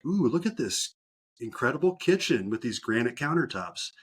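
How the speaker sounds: mock pleasant surprise. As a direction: play a lightly amazed house snooper. Acting agent discovering kitchen in video.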